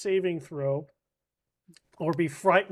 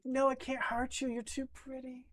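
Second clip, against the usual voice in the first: dazzled monster; 8 semitones higher, 8 dB quieter than usual. Pretend.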